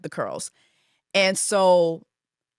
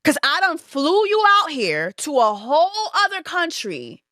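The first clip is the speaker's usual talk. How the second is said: high, laughing outrage; indignant laughing rant; 8 semitones higher than usual. Real, not acted. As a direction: laugh through the disbelief, pitch up.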